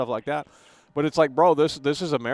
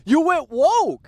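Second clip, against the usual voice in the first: high, drawn-out holler; big slow accusing shout; loud accusation; 9 semitones higher, 7 dB louder, much slower than usual. Real, not acted. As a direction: call them out, loud and stretched. Repeating the accusation at co-host.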